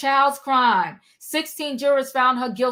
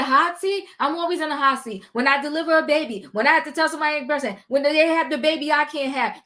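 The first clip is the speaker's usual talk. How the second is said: mocking imitation; faster than usual. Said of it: "She said".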